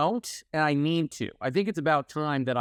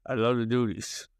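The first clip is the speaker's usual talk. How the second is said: gruff bulldog voice; slower than usual. Pretend. Mock bit of a country singer's song.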